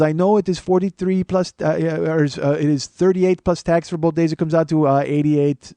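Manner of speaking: lightly put-on Indian-accented clerk; mild mock Indian accent. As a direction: explain the bill in an Indian accent. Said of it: "he's got that, uh, accent".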